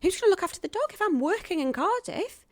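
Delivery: high, anxious questioning; retold fretting. Actress asking partner about Cardiff and dog, re-enacted fretting.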